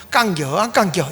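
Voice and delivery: lightly done Chungcheong question; Chungcheong dialect. Shown as a demonstration. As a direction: give the short Chungcheong version of the question. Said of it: "충청도 말로는".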